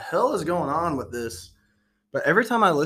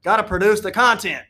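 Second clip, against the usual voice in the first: put-on loud, high Austrian-accented exclamation; hammed-up Austrian action-star accent; Arnold Schwarzenegger; 8 semitones higher, 9 dB louder than usual. Host echoes co-host about content, loud mock Austrian accent. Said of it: "Arnold Schwarzenegger".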